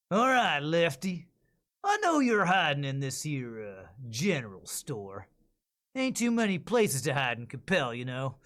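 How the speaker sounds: a hint of a Texas lawman taunting the bandit. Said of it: "Texas lawman".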